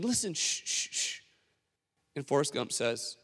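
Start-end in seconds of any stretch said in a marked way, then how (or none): 0.0-1.2 soft, fading shushes into a whisper; hushing. Retold or imitated. Crowd quieting for Forrest, fading shush. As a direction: hush them down to nothing.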